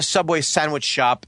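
"Subway sandwich shop" pointedly enunciated; affected pronunciation. Real, not acted. Caller telling his story, "Subway sandwich shop" needlessly precise. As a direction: lay careful weight on "Subway sandwich shop". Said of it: "Stop saying it like that".

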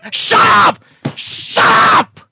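loud, high irritated snap; annoyed at the bingo heckler; snapping shut up. Real, not acted. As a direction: cut him off hard. Annoyed at interruption.

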